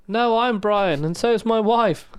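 a hammed-up film-fan recital; Life of Brian quote. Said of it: "Life of Brian's pretty good".

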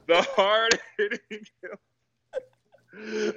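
high, stretched-out hype voice; drawn-out mock announcer. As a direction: savour each word like a hype man. Savours the nickname, laughing.

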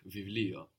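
βιβλίο pronounced "vivlio"; V sound. Shown as a demonstration. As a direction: use v for each β in βιβλίο. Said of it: "what we actually pronounce is a V".

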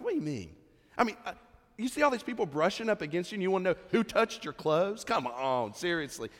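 mock exasperated disbelief from the disciples; lightly voiced sarcastic disciples. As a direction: play the disciples rolling their eyes at him. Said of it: "they kinda get a little sarcastic".

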